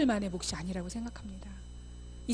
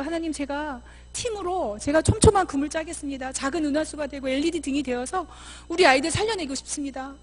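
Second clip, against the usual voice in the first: earnest prayer; 4 semitones higher, 4 dB louder than usual. Acted. Acts out a committed prayer.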